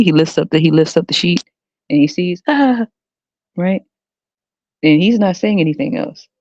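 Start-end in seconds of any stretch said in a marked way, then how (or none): 2.5-2.9 high mock cry of shock; mock gasp. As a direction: imitate a startled man's "ah". Man acted seeing under the sheet.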